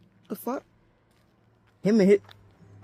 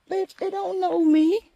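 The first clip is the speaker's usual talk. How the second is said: higher, sassy comeback; real sass; indignant retort; 13 semitones higher than usual. Real, not acted. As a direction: snap back at the owners. Retort to pet owners.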